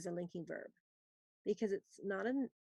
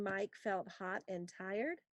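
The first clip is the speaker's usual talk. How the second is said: slow and softer repeat; softer slow dictation; 6 dB quieter, slower than usual. Shown as a demonstration. Teacher rereading a sentence for slow writers. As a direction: read it again softly and slowly. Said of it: "let me read number two again".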